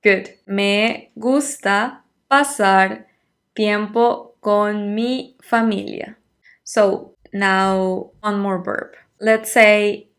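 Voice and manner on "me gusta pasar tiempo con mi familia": slow, careful Spanish for learners; slow model answer. Shown as a demonstration. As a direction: spell it out slowly, syllable by syllable. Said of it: "how would you say".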